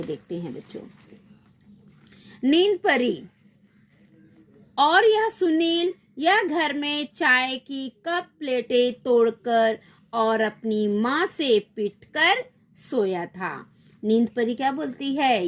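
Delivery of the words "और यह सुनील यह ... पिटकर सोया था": tattle on Sunil in a fairy voice; sleep fairy voice. Acted. Sleep fairy reports Sunil's mischief. (नींद परी की ऊँची शिकायती आवाज़)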